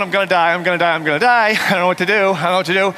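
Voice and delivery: fast, gabbled I'm gonna die; mock panic. The speaker bouncing around the ring, comically terrified. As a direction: chant it in comic terror.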